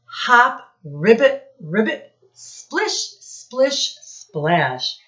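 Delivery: frog sound words. Shown as a demonstration. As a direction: hop through the words like a frog. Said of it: "All sound words".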